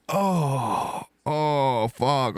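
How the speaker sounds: high moan of relief; relieved groan. Retold or imitated. High relieved moan at finally peeing.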